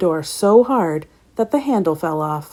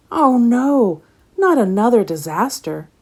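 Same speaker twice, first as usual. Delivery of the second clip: higher, louder exasperated cry; shouting; 5 semitones higher, 4 dB louder than usual. Acted. Pete shouts as tea splashes everywhere, louder and higher. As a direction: throw up your hands at yet another mess. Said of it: "shouted Pete".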